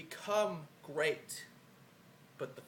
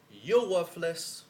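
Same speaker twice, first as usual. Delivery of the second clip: slow and much louder, spitting each word; loud contempt; 9 dB louder, much slower than usual. Acted. The wrestler tells his rival, slow loud contempt. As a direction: lean in and hammer it down.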